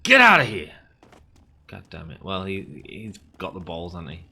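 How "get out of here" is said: louder, higher get out; mock shout. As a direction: yell it at the rival. Shouting at rival bidder.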